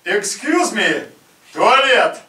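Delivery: put-on loud full-bodied Russian accent; Russian projection. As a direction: boom it like a big Russian. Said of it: "typical Russian projection".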